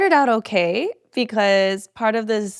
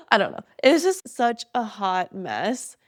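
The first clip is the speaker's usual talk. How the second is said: laughing helplessly; 4 semitones higher than usual. Real, not acted. Laughing exasperation at hot mess.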